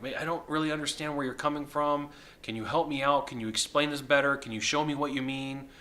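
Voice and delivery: a mildly puzzled, concerned ask; gentle confused concern, playing dumb; with some concern. Shown as a demonstration. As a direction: sound genuinely unsure and ask for help. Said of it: "with some concern".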